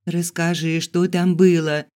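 high, eager plea for the news; eager questioning. A narrator's reading. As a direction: press her excitedly to tell. Girls eagerly ask for news. (с нетерпеливым любопытством)

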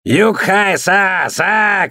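a high, very slow battle cry; war cry. A narrator's reading. Thor charges into the fight, wild high war cry. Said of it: "кричал Тьор".

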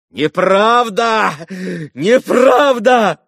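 frantic outcry against slander; shouting. A narrator's reading. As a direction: hurl the denials at them. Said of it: "продолжал кричать Митя".

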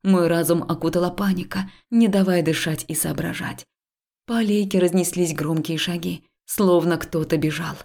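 plain reading voice

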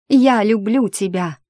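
slow, loud, high cry of love; cried out. Acted. Heroine crying out her love to the dying dragon, loud and slow. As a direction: fling the words out with all her heart. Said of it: "выкрикнула".

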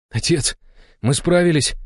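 high, firm proud son; firm, voice catching at the end; firm young man. A narrator's reading. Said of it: "твёрдо произнёс Илья".

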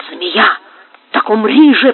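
menacing hiss rising in force. A narrator's reading. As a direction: spit out a deadly threat. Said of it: "прошипел Карлос".

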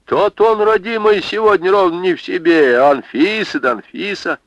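high, loud wondering exclaim; amazed babushka voice; astonished old woman. Acted. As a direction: marvel aloud at what she's heard. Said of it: "с изумлением прошептала старуха".

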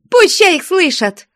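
high, loud defiant yell; raging shout. Acted. Jealous woman defying her lover, shouting. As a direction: fling it back at him in fury. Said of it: "Пуще прежнего лютовала Устинья".

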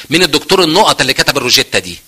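mock-contemptuous question about a colleague; scornful mockery. Doctor belittling whoever wrote the prescription, mockingly. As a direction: lightly act out a dismissive doctor. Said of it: "بسخريه واستهزاء وتقول".

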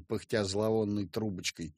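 ordinary delivery

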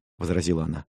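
plain reading voice

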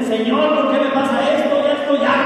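shouted prayer. Shown as a demonstration. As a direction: cry out to the Lord, tired and fed up. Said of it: "así grítale".

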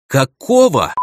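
sharp, rough and loud; rough angry demand. Acted. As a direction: bark it out rudely. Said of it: "грубо начала Киера".

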